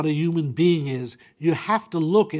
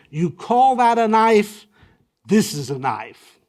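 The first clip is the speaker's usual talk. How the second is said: mock challenge; 6 semitones higher, 6 dB louder than usual. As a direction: toss out a he-man's dare, half in jest. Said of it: "the way you Google it is".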